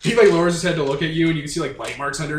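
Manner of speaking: fast, loud, eager description; loud and fast retelling; excited telling. Real, not acted. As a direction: rush it out, thrilled. Describing a menacing creature.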